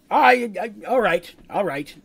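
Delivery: stammered, nervous giving in; a little nervous. Acted. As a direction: start high, stumble, then slow down as you relent. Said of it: "who looks a little nervous".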